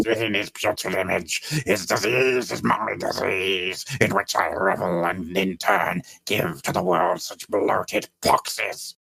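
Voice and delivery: grand rich voice. Retold or imitated. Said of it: "This is such wonderful".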